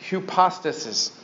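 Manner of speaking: Hypostasis with a Greek u sound: hu-POS-ta-sis. Shown as a demonstration. Preacher reading the Greek letters of Hypostasis aloud. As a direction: say Hypostasis with an oo vowel at the start. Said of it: "the Greek up there has the little U".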